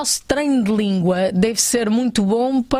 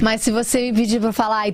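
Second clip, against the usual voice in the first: put-on Brazilian Portuguese accent. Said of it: "sotaque brasileiro".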